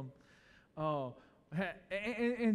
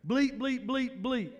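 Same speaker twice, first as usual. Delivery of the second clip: fewer bleeps; 4 semitones higher, 3 dB louder, slower than usual. Retold or imitated. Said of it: "I only got half the bleeps".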